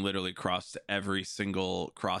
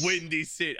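put-on Chicago accent; 8 semitones higher than usual. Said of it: "New York accent than a Chicago accent".

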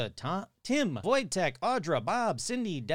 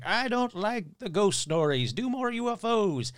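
higher mock complaining fan; whiny listener; 6 semitones higher, 4 dB louder than usual. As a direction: whine like a picky fan. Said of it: "people be like".

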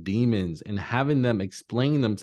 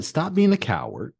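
confronting inner voice; 4 semitones higher than usual. Acted. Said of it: "Tell it".

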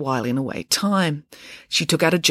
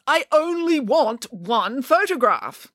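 firm; 9 semitones higher, slower than usual. Acted. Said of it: "declared Nanny Piggins".

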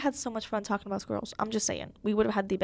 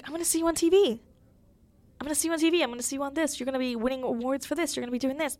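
higher-pitched imitation of an excited grandma; enthusiastic grandma; 4 semitones higher, faster than usual. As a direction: cheer her on like a proud grandma. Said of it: "enthusiastic for me".

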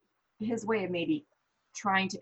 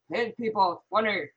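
Connor voice; 5 dB louder than usual. Retold or imitated. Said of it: "let me do my Connor voice".

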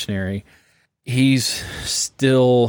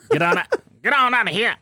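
much higher "Get on out", breaking into a laugh; old Southern dog call; 13 semitones higher, faster than usual. Shown as a demonstration. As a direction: holler it, laughing through. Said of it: "we heard the same thing".

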